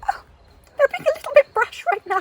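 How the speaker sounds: high, quick, fretful English voice; scandalised little English aside; prim English disapproval. Acted. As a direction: fret in a high mock-English voice. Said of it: "I'm English and you just kind of go".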